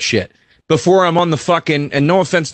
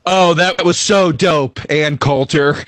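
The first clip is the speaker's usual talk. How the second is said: Doctor Ken; slower than usual. Retold or imitated. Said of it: "Doctor Ken wearing a fucking singer's glitter jacket going".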